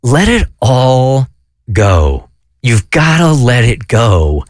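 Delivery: lightly voiced inner voice, deliberate and unhurried; inner voice speaking. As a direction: space the words out and let the last one sink. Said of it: "this voice came into my head saying".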